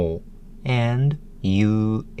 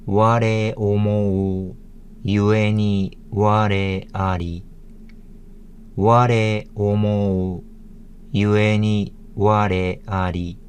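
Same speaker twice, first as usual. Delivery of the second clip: Japanese demonstration. Shown as a demonstration.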